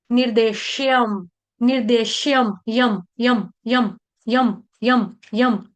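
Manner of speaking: निर्देश्यम ending in a short यम with the lips shut at once; clipped yam. Shown as a demonstration. Teacher drills the half म of निर्देश्यम. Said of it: "ये तो आपको बोलना आता है".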